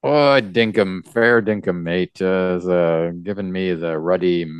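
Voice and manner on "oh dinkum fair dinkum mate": slow hammed-up Australian accent; a jokey fair dinkum in a put-on Australian voice; teasing a comic character's Australian slang in a put-on Aussie accent; mock Aussie accent. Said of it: "some sort of New Zealand, uh, slang".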